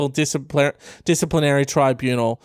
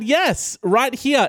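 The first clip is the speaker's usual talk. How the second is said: higher-pitched, lightly acted student reply; eager taunt, pitched up; cheeky student; 9 semitones higher, much slower than usual. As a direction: put on a cheeky kid's answer.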